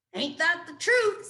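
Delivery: lightly voiced folksy old groundhog. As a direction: drawl it like an old-timer.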